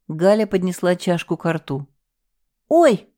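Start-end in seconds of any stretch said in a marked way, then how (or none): 2.7-3.1 sudden high, loud oh; startled cry. A narrator's reading. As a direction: yelp in fright. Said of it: "воскликнула я".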